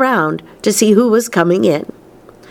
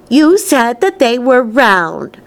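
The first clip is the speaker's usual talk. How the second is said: accusing; 6 semitones higher, slower than usual. A narrator's reading. Spoilt girl argues.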